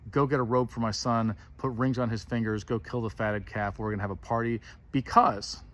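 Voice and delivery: brisk orders waving the matter aside; lightly dismissive father giving quick orders. Retold or imitated. Father brushing off his son's apology and ordering a party, dismissive. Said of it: "dismissive, like".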